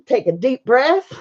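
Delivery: slight accidental Southern twang; Southern accent. Real, not acted. Streamer readying herself to blow paint, slight Southern accent. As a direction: let a little Southern accent slip in. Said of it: "got all Southern sound in there".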